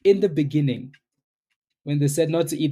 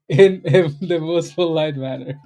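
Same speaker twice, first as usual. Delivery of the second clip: amused teasing; 2 semitones higher than usual. Real, not acted. Laughing about his teasing.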